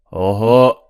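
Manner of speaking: loud admonishing "어허", then slow, drawn-out insisting; pushy customer. Acted. Regular customer insists the busy waitress attend to him, pushy. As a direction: act an entitled regular leaning on the waitress.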